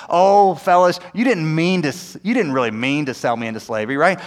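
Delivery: mock-soothing, excusing tone that sinks as it goes; falsely forgiving, coaxing reassurance; over-sugarcoated. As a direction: sugarcoat it for them, letting them off the hook. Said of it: "we need to over sugarcoat things".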